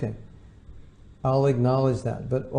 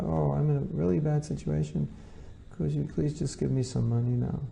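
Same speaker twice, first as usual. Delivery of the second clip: softer, pleading and polite; gentle pleading read; 2 semitones higher, 5 dB quieter than usual. Shown as a demonstration. Reading the same money email aloud, soft and pleading. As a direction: read it like a humble, soft request. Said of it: "If you read it like that, then different reaction".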